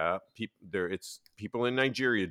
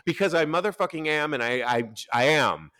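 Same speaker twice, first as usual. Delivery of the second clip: defiant retort; 5 semitones higher, 8 dB louder than usual. Retold or imitated. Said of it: "I'm all".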